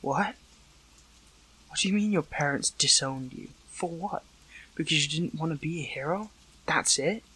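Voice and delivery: incredulous questions with rising ends; shocked disbelief. Acted. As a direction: question it in mild, stunned disbelief. Learns parents disowned the other.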